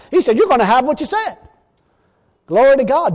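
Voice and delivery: defiant, punchy sermon delivery; forceful preaching. Real, not acted. Preacher standing with Jesus against any who argue, forceful. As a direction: preach it with conviction, punching the praise.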